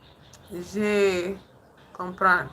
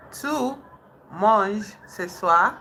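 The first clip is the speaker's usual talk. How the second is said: slow practice; 5 dB louder, slower than usual. Shown as a demonstration. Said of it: "repeats phrase for practice".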